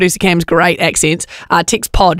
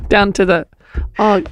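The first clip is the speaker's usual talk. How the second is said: put-on South African accent. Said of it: "South African accent".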